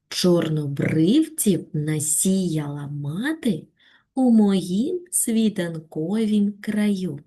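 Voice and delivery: slow, tender recitation of a poem; expressive poem reading. Shown as a demonstration. Teacher reads the poem aloud to pupils, slow and heartfelt. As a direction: read each line slowly and lovingly. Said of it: "виразно прочитати вірш".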